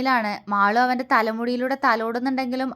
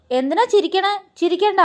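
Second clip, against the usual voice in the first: much higher, cross little protest; childish anger; 7 semitones higher than usual. A narrator's reading. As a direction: stop her laughing, offended. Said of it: "ദേഷ്യത്തോടെ പറഞ്ഞു".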